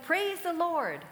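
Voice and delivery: loud, slow, high proclamation; drawn-out shouted praise; joyful shout. Retold or imitated. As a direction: call it out from the porch for all to hear. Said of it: "and she shouted".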